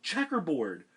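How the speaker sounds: loud, high playground yell; shouted taunt. Acted. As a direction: bark it out to tease. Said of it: "Someone else shouted".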